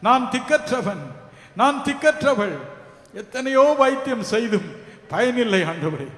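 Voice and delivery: a touch of lament, rising in pitch and volume; lamenting plea. Acted. Preacher voicing the sick crying to God, mild lament. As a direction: model a sick person's desperate cry to God, half-acted. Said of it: "புலம்புவீர்களா".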